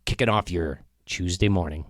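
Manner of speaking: lightly put-on radio host intro. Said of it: "Was that a good radio voice?".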